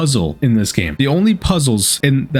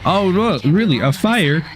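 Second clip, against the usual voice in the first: sarcastic; 3 semitones higher, slower than usual. Real, not acted. Sarcastic reply to the game AI.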